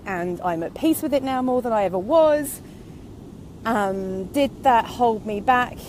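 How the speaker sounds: breathless from walking; out of breath. Real, not acted. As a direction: talk while short of breath. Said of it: "I'm out of breath".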